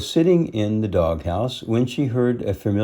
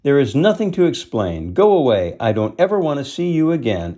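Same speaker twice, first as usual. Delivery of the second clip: angry; 6 semitones higher, 4 dB louder, faster than usual. Acted. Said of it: "Lady keeps scolding Tramp".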